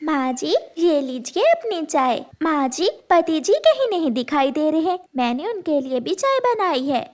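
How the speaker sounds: a hint of a timid daughter-in-law, apologetic; lightly voiced meek bride, eager to please; meek young bride. Tooni serves tea.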